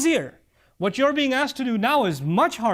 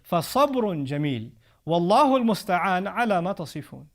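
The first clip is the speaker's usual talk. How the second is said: quick recitation; much faster than usual. Acted. Quran verse recited.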